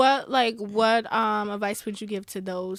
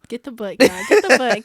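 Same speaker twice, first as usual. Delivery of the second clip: hype call; 10 dB louder than usual. Real, not acted. Hyping the book loudly.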